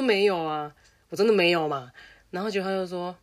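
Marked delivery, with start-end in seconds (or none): 0.0-1.9 put-on protesting kid. Kid denies to teacher.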